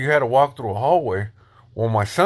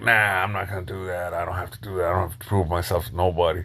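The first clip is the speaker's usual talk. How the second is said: lower, softer brush-off in an imitated voice; dismissive Drifter; 6 semitones lower, 5 dB quieter, faster than usual. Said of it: "he was like".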